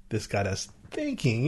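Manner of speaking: thinking leaned on, falling; stress on THINKING. Shown as a demonstration. Showing emphasis games to a co-host. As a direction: land on the word thinking. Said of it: "the Q I people said".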